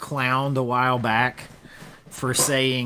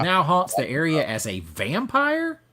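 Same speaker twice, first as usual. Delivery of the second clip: dramatic trailer reveal; 5 semitones higher, 5 dB louder than usual. Acted. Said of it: "I'll stop with the news anchor voice".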